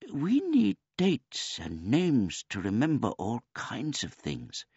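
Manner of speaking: put-on high, polite old man voice; a gentle, childlike old man; simple old man. A narrator's reading.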